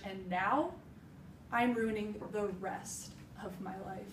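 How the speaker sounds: deliberate delivery with long pauses; a heartfelt stage confession, broken into weighted phrases; dramatic monologue. Acted. Woman confessing how she lost herself after her mother died, dramatic monologue.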